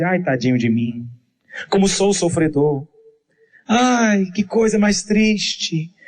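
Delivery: lamento choroso exagerado de quem tem pena de si; autopiedade fingida. Retold or imitated. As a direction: choramingar com pena de si mesmo, arrastando o final. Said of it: "aquele choro de autopiedade". (imitação leve de um coitadinho lamurioso)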